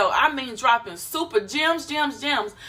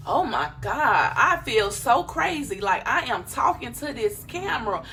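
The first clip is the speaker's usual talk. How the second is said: mock self-conscious. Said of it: "if you come on here".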